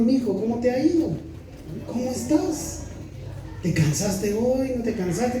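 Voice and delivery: soft, caring fatherly questions; tender father. Retold or imitated. Caring father asking his son about his day, soft and tender. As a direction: ask gently like a loving dad.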